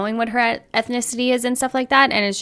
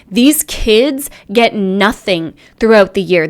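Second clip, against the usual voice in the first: indignant anger, louder; heated rant; 4 dB louder than usual. Real, not acted. Tearing into the mother over her video, heated and loud. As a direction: build the outrage line by line.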